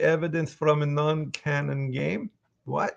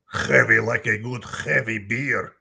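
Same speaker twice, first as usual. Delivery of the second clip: jovial Russian heavy with chuckles; 4 dB louder than usual. Acted. Heavy telling fans what he likes to drink, jovial Russian voice.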